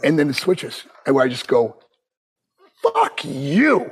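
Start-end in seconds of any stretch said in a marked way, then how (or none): 2.8-3.9 retold defiant curse. Snapping back at Butch.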